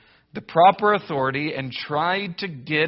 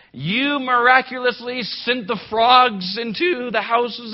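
higher, louder hammed-up pious prayer; mock earnest prayer; 6 semitones higher, 4 dB louder than usual. Believer asking God to remove ants, mock-solemn plea. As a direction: pray over ants with exaggerated reverence.

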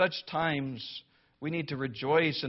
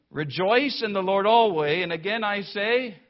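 raised, ringing reading of the verse; proclaimed verse; 4 semitones higher, 6 dB louder than usual. Real, not acted. Preacher reading the verse aloud to the church, raised and ringing. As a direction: lift the verse up high and loud.

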